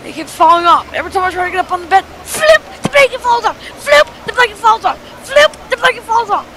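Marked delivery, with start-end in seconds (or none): 2.2-6.4 exasperated. Real, not acted. Frustrated repetition of blanket falling.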